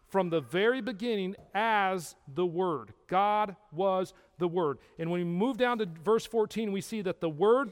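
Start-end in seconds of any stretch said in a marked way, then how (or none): none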